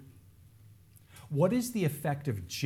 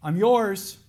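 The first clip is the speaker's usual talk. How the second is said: louder, higher cry of surrender; pleading cry to God; 7 semitones higher, 8 dB louder than usual. Acted. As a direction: offer yourself to God out loud. Repeating the believer's cry.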